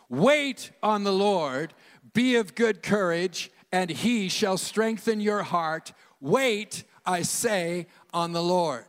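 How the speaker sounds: loud, slow, emphatic group reading; outside voice. Shown as a demonstration. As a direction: read it out boldly, not church mumbling. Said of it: "Read out loud with me in your outside voice".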